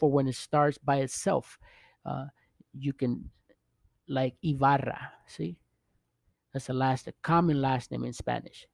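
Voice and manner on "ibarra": Ibarra opening on "ee"; pronunciation demo. Shown as a demonstration. Teacher giving a surname example, Ibarra begun with "ee". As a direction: say Ibarra as "ee-BAR-ra". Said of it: "Makes that E sound".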